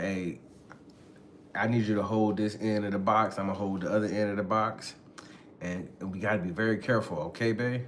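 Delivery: low, soft acted instruction; calm and careful. Man asking babe to hold the box, calm and careful. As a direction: explain it gently, keeping low.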